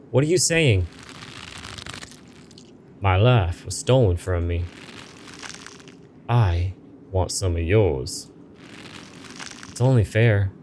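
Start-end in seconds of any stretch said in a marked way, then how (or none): 3.0-10.5 slow, ominous spirit voice, lightly voiced; menacing ghost. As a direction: draw out the curse like a threat. Ghost claims their years.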